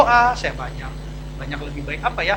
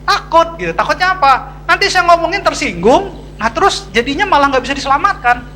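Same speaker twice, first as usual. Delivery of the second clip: higher, louder anxious pleading; worried outburst; 8 semitones higher, 5 dB louder than usual. Real, not acted. Pastor voicing fear the church won't be saved, worried. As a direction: fret aloud about losing them.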